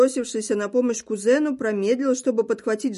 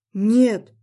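a short louder outcry; shout; 6 dB louder than usual. Acted. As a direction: bark out no to stop his wife. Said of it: "выкрикнул он". (выкрикнуть нет)

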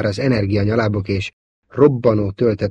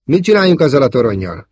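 worried; 5 semitones higher, 7 dB louder than usual. A narrator's reading. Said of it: "kérdezte gondterhelten Wedge".

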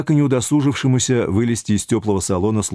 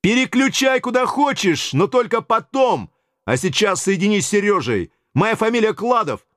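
much higher, cocky phone voice; cheeky bully on the phone; brash Yura; 11 semitones higher than usual. Acted. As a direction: push the receptionist around with swagger.

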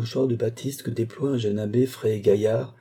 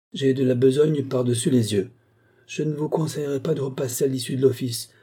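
higher, fussy excuses; self-important abbé; 5 semitones higher than usual. Acted. Abbé discouraging the visitor from coming back, self-important. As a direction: put the caller off with busy officiousness.

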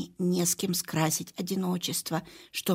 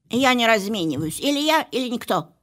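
louder, haughty proclamation; snooty bored cat; 2 semitones higher, 6 dB louder than usual. Acted. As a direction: declare it like a diva. Cat proud declaration.

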